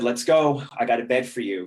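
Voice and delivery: brisk eager mother. Retold or imitated. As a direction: hurry him out the door, all business.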